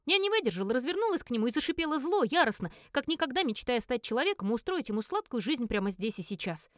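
usual speaking voice

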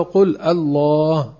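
put-on slow, careful word for a child; slow teaching. Shown as a demonstration. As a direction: spell it out slowly to a small child. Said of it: "فإذا أحسن تقول له". (نطق بطيء متأنٍّ للطفل)

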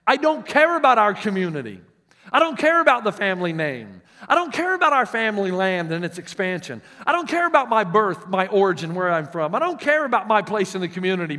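loud, hammered defiance, stress on care; rebellious son rejecting his family loudly; defiant son. Acted. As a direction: spit out every I don't care. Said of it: "he in effect is saying this".

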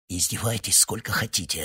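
ordinary delivery, nothing marked

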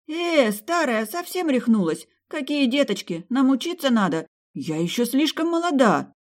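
high indignant protest; indignant girl. Acted. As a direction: squeal it back in outrage.

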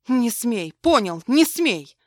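громко, с нажимом на «не»; кричать защищая дочь; отчаянный крик. Acted. Мать защищает ребёнка. (громкий отчаянный запрет)

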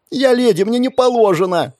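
high, tearful whine of a lady; whiny tearful. Acted. Dangling, Lucille whines tearfully to the ratnik that ladies needn't. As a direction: whimper it on the edge of tears. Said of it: "промычала Люсиль и разрыдалась".

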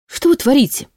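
high-pitched angry demand; indignant outburst. A narrator's reading. Demon demands answers from the heroine, indignant. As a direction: leap up in pitch, outraged.

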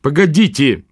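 high, loud cry to interrupt; boy's shout. A narrator's reading. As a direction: cut the quarrel short. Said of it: "крикнул малой Потык".

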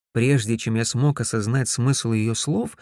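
ordinary delivery

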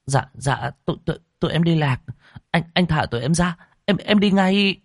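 high, fast, stammering plea; panicked stammer. A narrator's reading. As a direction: stutter it out in terror. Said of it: "Ngân thốt hoảng".

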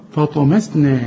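"فطمسنا" with thin "masne", heavy ط only; correct light letters. Shown as a demonstration. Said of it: "كلها خطأ".

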